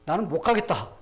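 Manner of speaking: firm, loud acted refusal; unflinching refusal. Queen turning down the king's order, unflinching. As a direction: refuse outright, pushing the volume up. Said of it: "눈 하나 깜짝하지 않고".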